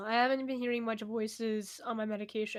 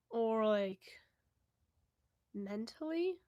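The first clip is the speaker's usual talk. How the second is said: whispered guess; slower than usual. Real, not acted. Unsure, asking the viewer.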